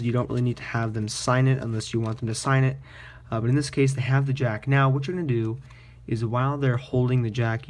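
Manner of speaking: ordinary talk, nothing marked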